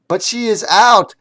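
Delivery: high loud villain shout; angry order. Acted. The villain orders the huggers to grab Wild, high loud shout. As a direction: bark orders to seize her.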